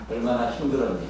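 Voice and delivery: a tender question with a laugh in it; laughing sympathy. Shown as a demonstration. Pastor showing how to ask the person beside you, laughing. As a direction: ask your neighbour kindly, chuckling. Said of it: "옆에 있는 분한테".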